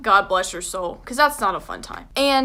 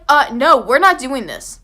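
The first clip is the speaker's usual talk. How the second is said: louder flat no; firm refusal; 6 dB louder than usual. Retold or imitated. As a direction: shut the idea down hard. Refusing friends at midnight.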